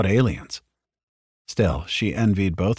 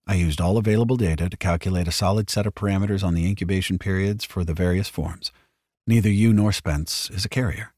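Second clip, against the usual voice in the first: even, measured synthetic voice; steady and precise, a bit fast; calm android voice. Acted. Robot Bishop speaks.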